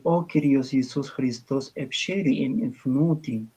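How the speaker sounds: slow, careful liturgical Coptic; measured Bohairic Coptic reading. Shown as a demonstration. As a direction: say it like a liturgical chant phrase. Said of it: "ese es copto bohárico".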